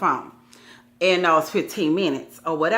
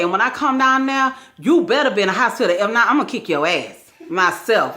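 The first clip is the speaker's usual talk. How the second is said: angry threat; 2 semitones higher than usual. Retold or imitated. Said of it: "I'm just so mad".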